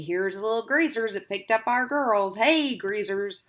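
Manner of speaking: put-on slurred drunken sneer; drunk taunting. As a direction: taunt them, a little drunk. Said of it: "Bob said a little unsteadily".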